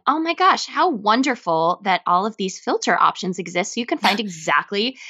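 bright salesy pitch voice; infomercial voice. Pretend. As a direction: sell it like a TV ad. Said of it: "you sound like an infomercial".

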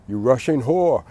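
mock scream.

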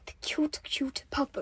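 hushed Australian nature-guide whisper; whispered Australian accent. Pretend. Host presents the cute puppet, hushed Australian accent. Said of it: "did you not say anything about my Australian accent".

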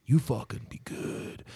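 a light tough-guy pep talk, mostly his own voice; mock hardcore motivation, fading to a whisper; Mister T impression. Mister T coaching scared eighties kids, in a light tough voice. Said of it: "Mister T like".

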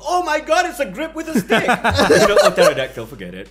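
high mock panic at a grip with a stick; hammed-up fright then a shrug. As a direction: squeal like a fake scared victim.

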